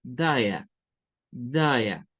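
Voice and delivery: daya said as one word, da-ya; reduced do you. Shown as a demonstration. Teacher showing natural reduction of do you. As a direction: run do you together into daya. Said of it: "va a sonar a ya".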